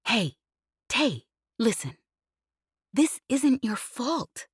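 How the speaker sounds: gentle pilot Jez. Acted. Jez consoling.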